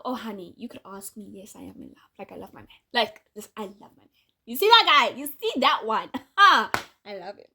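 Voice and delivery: fond gushing. Real, not acted. Fond gushing about her man.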